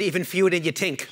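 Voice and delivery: a hint of thick New York in the voice; heavy New York accent. Historian joking back to a fellow wasp, New York accent. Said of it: "put on my heaviest New York accent".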